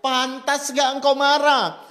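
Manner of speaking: preacher voicing God asking Jonah again. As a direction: press Jonah gravely. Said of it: "Kembali Tuhan bertanya".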